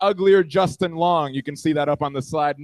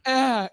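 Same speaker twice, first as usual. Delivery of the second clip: high short mock moan; imitated moan; 6 semitones higher than usual. Woman moaning in bed, high mock moan. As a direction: imitate her moan, pitched up. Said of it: "She goes back to moaning".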